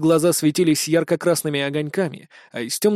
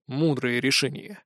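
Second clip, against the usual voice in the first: slow, softer, cold reply; 4 semitones lower, 6 dB quieter than usual. A narrator's reading. Hero to Chris facing the shadow dogs, cold. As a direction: say it flat and icy, slowly. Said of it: "холодно ответил я".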